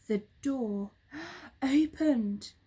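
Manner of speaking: slow, breathless amazement; hushed gasp of wonder. A narrator's reading. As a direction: gasp as the door swings. Gasp as door opens.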